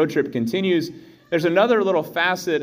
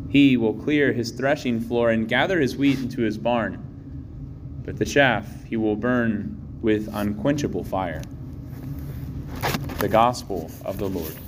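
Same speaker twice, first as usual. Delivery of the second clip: Gospel reading. Real, not acted.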